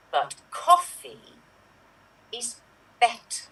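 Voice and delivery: lightly acted, very slow holy figure; measured words with long pauses between; Mother Teresa. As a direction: speak haltingly, like dispensing solemn wisdom over coffee. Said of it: "Could you be Mother Teresa being a barista".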